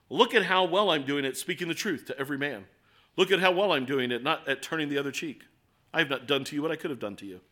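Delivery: lightly put-on British accent, self-satisfied; mildly hammed-up British haughtiness; haughty British accent. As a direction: boast with a hint of haughty British. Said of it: "I think in a British accent every time I think haughtiness".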